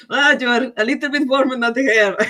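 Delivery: high, loud, strange ghost guy. Acted. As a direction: squeal it out as a giddy ghost. Ghost guy touching, laughing.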